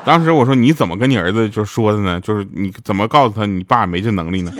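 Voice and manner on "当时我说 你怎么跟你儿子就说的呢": ordinary talk, nothing marked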